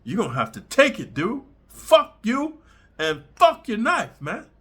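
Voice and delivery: tough-guy imitation of his own threat; mock threat. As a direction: stand your ground and dare them.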